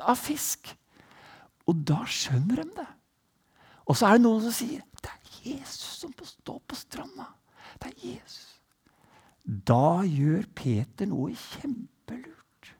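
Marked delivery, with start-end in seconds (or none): 5.0-8.6 hushed whisper; awed whisper. Acted. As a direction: breathe it as a secret discovery. Disciples awed at recognizing Jesus. (disiplene hvisker ærefryktig, hvisking)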